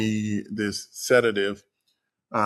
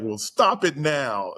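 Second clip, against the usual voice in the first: slow, higher-pitched insistent order; mildly exasperated imitation of a wife; retold demand; 4 semitones higher, slower than usual. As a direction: act out a firm demand, drawn out. Wife's retold demand to the doctor.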